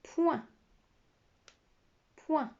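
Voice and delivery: "point" said clearly for dictation with a falling end; dictation word. Shown as a demonstration. Teacher dictates a syllable to pupils, clearly. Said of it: "écrire la syllabe".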